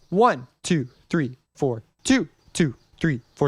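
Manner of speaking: ONE hit hardest, the other counts lighter; counting in four four. Shown as a demonstration. Teacher counting four four aloud with ONE stressed. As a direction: lean on ONE in each bar. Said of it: "we count it like this".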